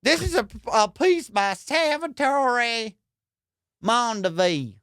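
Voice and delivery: high put-on voice mangling the fancy names; hammed-up, unrefined auctioneer; wrong-guy auctioneer. Comic as auctioneer presenting a piece nobody will buy, crude put-on voice. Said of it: "That shit ain't gonna sell for nothing".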